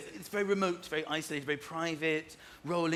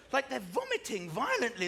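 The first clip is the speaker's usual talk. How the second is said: retching noise. Retold or imitated. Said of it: "this vile sort of".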